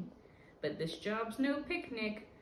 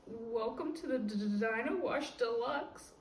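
nervous stammer; 3 semitones higher than usual. Acted. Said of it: "I take a deep breath".

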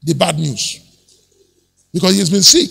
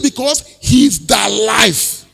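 1 preached shout; 2 semitones higher, slower than usual. Acted. Preaching with music.

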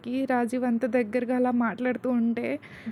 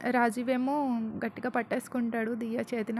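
usual speaking voice

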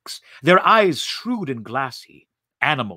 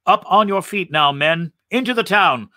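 rallying command; 5 semitones higher, 4 dB louder than usual. Acted. Commander rallies the men.

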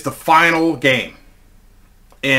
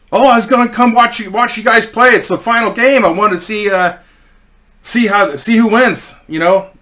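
higher, lightly acted cheerful voice; happy eager guy; 6 semitones higher than usual. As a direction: imitate an eager guy chatting on the phone. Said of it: "this guy was so happy".

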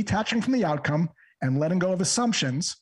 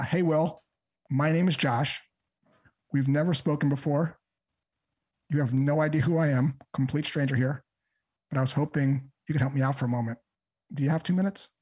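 calm, even and unhurried. Shown as a demonstration. Cold caller calmly asks a stranger for a moment. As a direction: keep it calm and inviting, nothing to sell. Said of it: "in a very calm voice".

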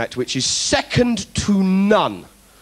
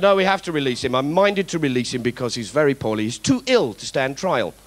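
imitating Jack Straw; 4 semitones lower than usual. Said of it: "Jack Straw said".

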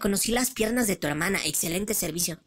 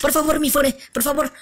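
loud pleading; 6 semitones higher, 7 dB louder than usual. Acted. Begging not to be exposed.

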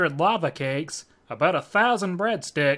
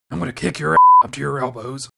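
furious threat; 4 semitones lower, 7 dB louder than usual. Acted. Furious threat after scare.

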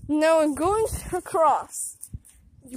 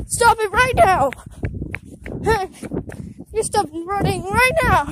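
loud scolding; 4 dB louder than usual. Real, not acted. Kid yelling at sibling to stop, loud. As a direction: shout the order to stop.

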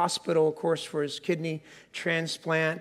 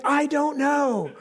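sheepish I don't know; 7 semitones higher, slower than usual. Retold or imitated. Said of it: "And you're like".

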